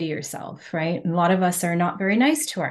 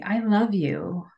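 whispered I love you; slower than usual. Shown as a demonstration. To her own reflection, a slow tender whisper. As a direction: breathe it to the mirror slowly. Mirror self-love practice demo.

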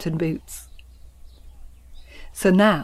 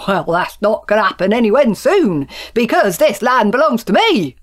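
angry; 2 semitones higher, 5 dB louder than usual. Acted. Angry quarrel between farmers.

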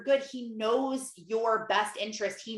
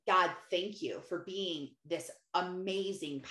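quiet prayer; 4 semitones lower than usual. Shown as a demonstration. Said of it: "Just taking a minute to just".

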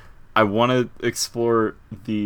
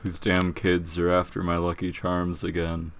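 cue card reading; 4 semitones lower, 4 dB quieter than usual. Pretend. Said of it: "reading off of a cue card".

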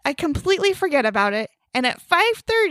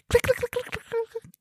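typing clicks; 10 semitones higher, 6 dB quieter than usual. Retold or imitated. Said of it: "the lady's like".

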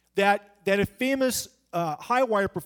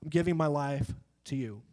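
quiet prayer; 5 semitones lower, 5 dB quieter than usual. Retold or imitated. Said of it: "We say, we say".

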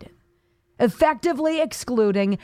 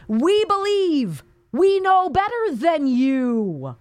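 mock condescension; 5 semitones higher, slower than usual. Voicing condescending party.

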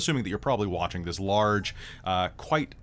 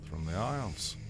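Scottish brogue; 5 dB quieter than usual. Acted. Scottish character speaks on, far.

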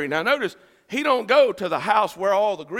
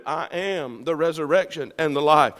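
Jesus's calm answer; 2 semitones lower, 5 dB quieter than usual. Acted. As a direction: drop the pitch for a steady reply. Jesus's answer to job worries.

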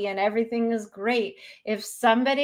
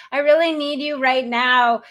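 needy friend; 4 semitones higher, 7 dB louder than usual. Retold or imitated. Mocking a friend playing victim.

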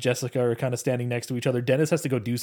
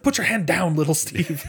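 higher-pitched imitated scolding; mock dismissive put-down; 3 semitones higher than usual. Retelling the director refusing little Steve, mock dismissive. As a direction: shut the eager volunteer down, in mimicry. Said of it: "constantly shutting little Steve down".

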